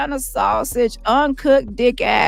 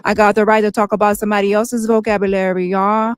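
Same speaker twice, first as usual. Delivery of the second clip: monotone send-up of a self-satisfied talker; run-on mock bragging with filler ums; mock boasting. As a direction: drone through the brags, mocking her. Mocking the boastful talker's self-praise.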